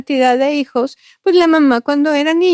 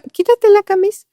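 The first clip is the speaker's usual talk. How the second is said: higher, urgent push to take it off; a raised, insistent demand; urging, pitched up; pressing plea; 9 semitones higher than usual. Retold or imitated. Representative urging shirt off.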